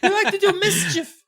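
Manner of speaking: very high gnome voice through a laugh; laughing gnome squeak. Retold or imitated. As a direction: giggle out the gnome's line.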